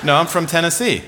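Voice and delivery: imitated British accent. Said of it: "she speaks with a British accent".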